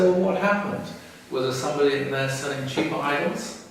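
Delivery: dismayed questioning. Retold or imitated. Father asks his son about unsold idols, dismayed.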